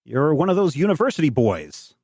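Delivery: lightly voiced high farmer; old French farmer. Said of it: "again in French, he says".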